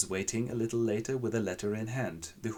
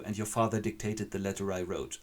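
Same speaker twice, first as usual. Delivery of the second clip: tearful confession. Acted. Dying girl confesses.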